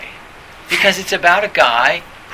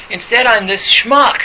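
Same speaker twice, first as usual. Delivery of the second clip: mock self-loathing; 6 semitones higher, 6 dB louder than usual. Acted self-loathing after the talk.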